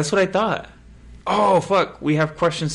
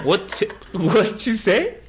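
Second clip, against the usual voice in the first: laughing disbelief; 10 semitones higher, 4 dB louder, much slower than usual. Real, not acted.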